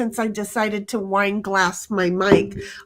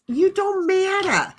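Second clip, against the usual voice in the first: deadpan put-down; 8 semitones higher than usual. Pretend. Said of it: "I actually tell my clients".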